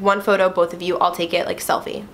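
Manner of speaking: matter-of-fact, straight to the point; deadpan. Retold or imitated. Comedian agrees to a selfie with two fans, deadpan. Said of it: "with a straight face".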